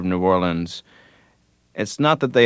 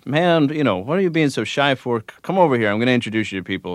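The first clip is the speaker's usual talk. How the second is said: higher-pitched, easygoing retold welcome; very friendly; 6 semitones higher, faster than usual. A musician inviting a shy newcomer over, very friendly. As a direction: brush off the shyness with friendly insistence. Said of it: "he was just very friendly".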